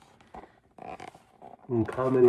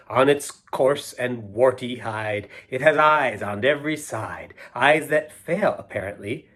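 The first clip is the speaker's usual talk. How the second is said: poem reading; 3 dB louder than usual. Acted. Reading a silly poem aloud to the kids, rhythmic and lilting. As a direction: savour each line for the kids.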